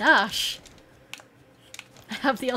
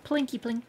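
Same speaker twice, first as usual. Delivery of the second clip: pew pew zaps. Pretend. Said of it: "Arrow noises".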